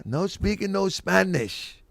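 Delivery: slow, put-on Spanish accent; hammed-up Spanish accent; fake Spanish accent. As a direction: drag it out in a mock Spanish accent. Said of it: "with a fake Spanish accent".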